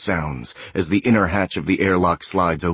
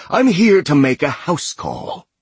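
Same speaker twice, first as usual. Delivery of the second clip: calling out; 8 semitones higher, 3 dB louder than usual. A narrator's reading. Villain calling out to hiding prey.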